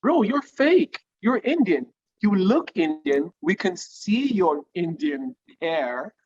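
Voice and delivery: playful mock telling-off; mock scolding. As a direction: call him out like a mocking classmate. Mocking a fake-accent kid.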